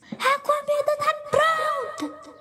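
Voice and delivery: put-on high, calling out to the kids; mother calling the kids to eat; shouted call. A narrator's reading. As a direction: call them to dinner.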